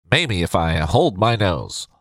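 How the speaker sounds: slow, pinched nasal nerd voice. Pretend. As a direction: talk as if holding your nose. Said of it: "Maybe that's too nasal".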